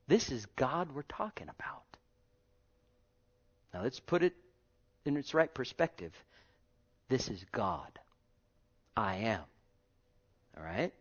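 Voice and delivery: soft, low, half-whispered reverence; hushed awe. Acted. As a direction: lean in and hush them.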